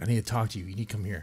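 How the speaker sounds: grave, serious tone, fast. Retelling how mom called them in to talk at eighteen, imitating mom's serious tone. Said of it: "she has a serious voice tone".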